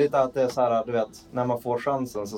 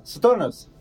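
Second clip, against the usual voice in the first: a loud call across the yard; 7 semitones higher, 5 dB louder than usual. Acted. Player calling the guard dog across the yard, loud call. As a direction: shout the dog's name.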